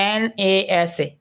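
"এন এ এস এ" letter by letter; name each letter separately, "এন এ এস এ"; spelled out. Shown as a demonstration. Teacher shows how NASA is not said, spelled out letter by letter. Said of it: "নাসার ক্ষেত্রে কিন্তু বলি না".

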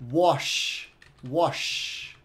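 "wash" with a long smooth SH; SH ending. Shown as a demonstration. Teacher contrasts it with watch, "wash" with drawn-out SH. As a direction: hold the SH at the end of "wash". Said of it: "o som de sh".

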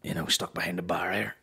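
a hint of a wheezy old man, dropping low at the end; lightly voiced old man. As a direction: explain it like a worn-out pensioner. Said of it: "I'll be like".

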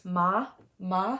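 "ma" with pitch going up; rising-tone "ma", gliding upward; second tone. Shown as a demonstration. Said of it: "the second tone is going up".

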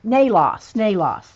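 Nalos said NAY-loss, falling each time; corrected pronunciation. Real, not acted. Host correcting herself from a note, saying NAY-loss. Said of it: "I'm putting the pronunciations".

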